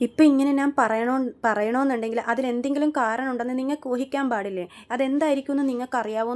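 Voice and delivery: a retold angry outburst; angry retort. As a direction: push back hard at the mother. Sachi angrily confronts the mother.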